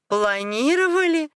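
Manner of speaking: high, scornful echo; spiteful mockery. A narrator's reading. Wife mocks his family plans, spitefully high. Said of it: "зло рассмеялась она".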